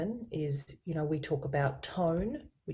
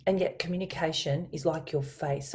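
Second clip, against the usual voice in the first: normal talking voice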